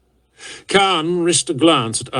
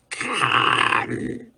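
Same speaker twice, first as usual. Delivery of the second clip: a hissed, voiceless name; grating hiss; 5 dB quieter than usual. A narrator's reading. Exhausted warlord hissing for his officer's attention. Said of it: "his voice a grating hiss".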